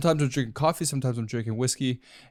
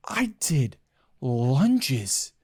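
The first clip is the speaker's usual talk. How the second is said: whispered confession in the comedy bit; playful stage whisper; mock whisper; 2 semitones lower, much slower than usual. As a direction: hush it like a secret. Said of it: "that was my best Chris D'Elia impersonation".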